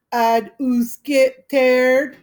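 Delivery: mock a little girl teasing the boys; shrill girlish voice.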